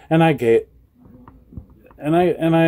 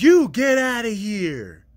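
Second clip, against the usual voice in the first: imitating the angry woman; 11 semitones higher, slower than usual. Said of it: "She's like".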